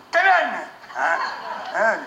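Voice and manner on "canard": put-on toddler babble. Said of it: "Il dit".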